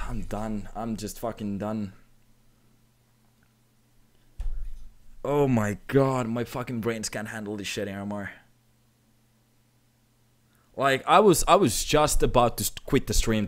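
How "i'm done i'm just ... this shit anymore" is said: low, soft, spent voice; drained. Real, not acted. Streamer overwhelmed by donations and giving up, drained. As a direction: say it quietly, all used up.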